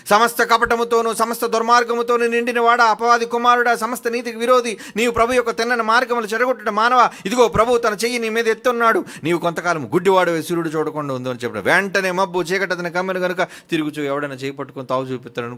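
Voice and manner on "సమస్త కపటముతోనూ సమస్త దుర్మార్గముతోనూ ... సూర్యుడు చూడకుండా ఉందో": loud, high, thundering rebuke; angry curse. Acted. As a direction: hurl the curse like a furious apostle. Paul cursing the sorcerer. (కోపంతో గట్టిగా శపిస్తూ)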